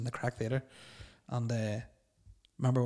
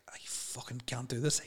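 lemah dan pelan; 6 dB quieter, slower than usual. Retold or imitated. Ill on stage, wants off.

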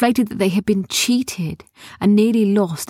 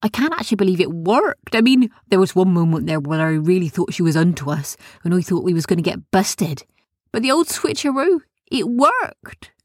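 gloating gnome. Acted. Gnome gloats over the trick.

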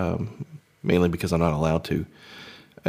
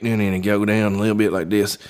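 light hillbilly twang. Shown as a demonstration. Man demonstrating his hillbilly bit, light country accent. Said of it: "hillbilly bit".

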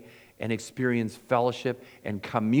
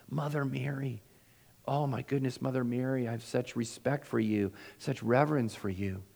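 reverent hush; 5 dB quieter than usual. Pretend. Imagining speaking to Mother Mary.

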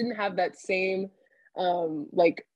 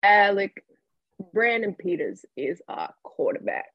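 Lovie impression; 2 semitones higher than usual. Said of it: "we'll role play it a little bit".

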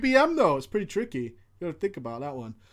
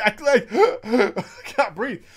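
mock gasp. Imitating breathless raid call.

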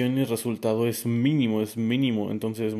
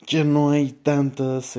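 yawning; 4 semitones higher, 7 dB louder, much slower than usual. Real, not acted. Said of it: "Al parecer bostezar".

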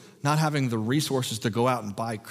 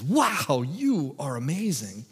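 lightly acted admiration, stretching the Wow; impressed praise; 2 semitones higher, slower than usual. Banquet master honoring the bridegroom, impressed.

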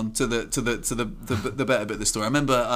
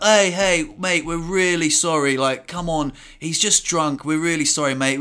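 imitating an apologetic mate, slightly raised pitch; 4 semitones higher than usual. Friend excusing his drunk mate to the car's owner, apologetic. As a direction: plead lightly on a friend's behalf. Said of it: "like, very apologetically".

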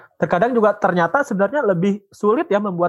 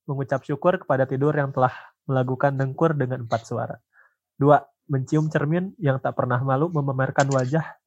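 soft, steady poem recital; poem reading; 2 semitones lower, 4 dB quieter than usual. Acted. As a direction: read each numbered line gently. Reads poem aloud.

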